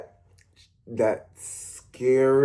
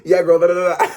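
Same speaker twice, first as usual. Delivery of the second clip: fast friend jabber; 7 semitones higher, 7 dB louder than usual. Retold or imitated. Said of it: "he'll be like".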